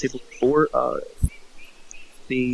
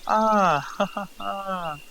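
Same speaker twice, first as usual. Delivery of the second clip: put-on nervous chuckle, higher pitched; nervous laugh; 6 semitones higher, much slower than usual. Market host unsettled by the skull's story, nervous laugh. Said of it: "like, a nervous laugh".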